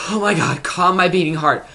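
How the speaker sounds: high, loud, thrilled outburst; fangirl swoon. Real, not acted. Fan anticipating the next episode, high thrilled swooning. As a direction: gush as if overcome.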